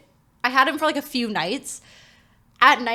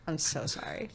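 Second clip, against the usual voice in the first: low, very soft mock contrition; sheepish apology; 6 semitones lower, 11 dB quieter than usual. Owner answering her "what were you doing", sheepish. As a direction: shrink into a small, guilty apology.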